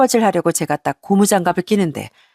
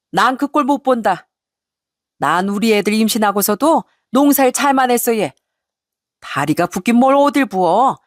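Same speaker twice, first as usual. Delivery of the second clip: blunt mother-in-law; 3 semitones higher than usual. Retold or imitated. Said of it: "퉁명스럽게 한마디를 하셨습니다".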